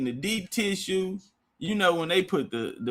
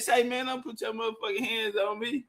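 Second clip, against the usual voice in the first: retold warning; 3 semitones higher, 8 dB quieter than usual. Teller's retold warning to masseuse.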